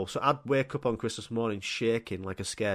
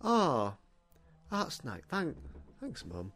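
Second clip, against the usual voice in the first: soft, falling underwhelmed thanks; feigned indifference; 7 dB quieter, slower than usual. Retold or imitated. Kid hiding delight over the best present, muted. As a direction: play it cool, barely bothered.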